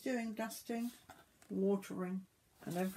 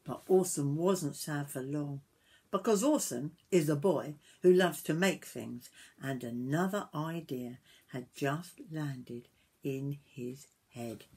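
put-on story narration to children; 6 dB louder than usual. A narrator's reading. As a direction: bring the tale gently to its end.

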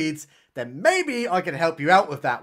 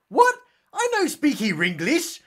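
lightly put-on Asian accent, pitched up; caricatured Asian-accented broken English; mock Asian accent; 8 semitones higher than usual. Captive acting clueless to his captor, mock Asian accent. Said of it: "An Asian man, he's like".

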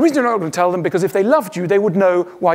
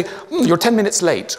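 procedural reproach. Pretend. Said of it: "you start to get very procedural".

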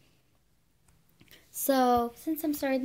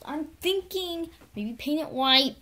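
whispering; 5 semitones higher, 4 dB louder, slower than usual. Real, not acted. Whispered aside.

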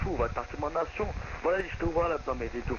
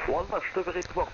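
voice changer; 3 semitones higher than usual. Acted. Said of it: "ça sert à rien d'utiliser des modificateurs de voix".

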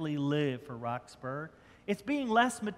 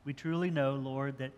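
prayer. Acted. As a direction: pray sincerely for the congregation. Pastor leads closing prayer.

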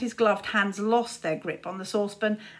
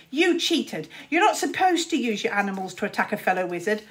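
panted complaint; 4 dB louder, faster than usual. Acted. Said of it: "panted Luther".

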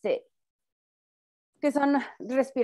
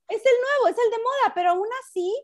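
much higher, laughing emphasis; amused high exclamation; 10 semitones higher, faster than usual. Real, not acted. Woman joking with her friend that covid is in fashion, high and amused. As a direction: laugh as you agree it's the trendy one.

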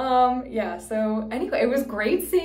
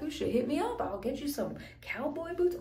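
a light mock of a smarmy flirt, higher; higher, lightly voiced come-on; imitating the oil guy; 5 semitones higher, 6 dB quieter than usual. Retelling the oil guy hitting on her, mock smarmy. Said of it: "He's like".

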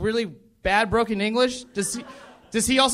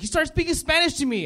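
imitating mom; 8 semitones higher than usual. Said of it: "She's like".

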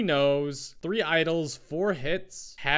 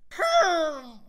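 high loud villager grunt; villager yes grunt; 12 semitones higher, 6 dB louder than usual. Acted. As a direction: bark it like a villager. Absolutely perfect.

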